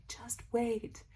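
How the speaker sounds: high, bright teasing voice; playful high "just wait" to followers; teasing sing-song. Retold or imitated. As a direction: pitch way up and tease a secret. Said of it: "I'm like".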